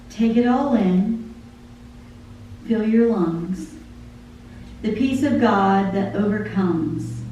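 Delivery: lyrics read aloud like a poem; spoken song lyrics, devotional; poem recitation. Acted. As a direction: recite the song, measured and heartfelt.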